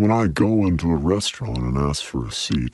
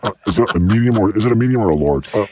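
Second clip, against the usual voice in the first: Woody Allen-ish nervous voice; 3 semitones higher than usual. Pretend. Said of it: "with a little Woody Allen-ish".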